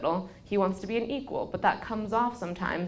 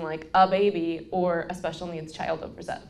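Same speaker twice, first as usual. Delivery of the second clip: ordinary delivery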